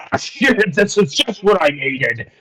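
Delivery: a hint of a gruff-talking sailor type; fisherman. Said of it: "particular fisherman that's just like".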